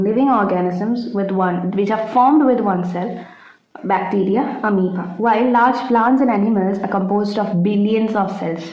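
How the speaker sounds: slow, careful dictation pace. Acted. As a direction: spell it out for notes, slowly. Dictating examples. (പതുക്കെ പറഞ്ഞുകൊടുക്കുന്ന രീതി)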